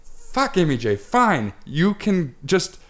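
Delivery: exasperated giving in. Retold or imitated. Giving in to nagging sister.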